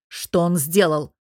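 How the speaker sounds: cold metal in every word; steely voice. Acted. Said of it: "С металлом в голосе".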